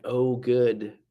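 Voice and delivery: loud, bright "oh, good"; sudden loud gladness at being stuck in traffic; mock delighted. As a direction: cheer the setback on out loud. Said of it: "If you could switch to something like".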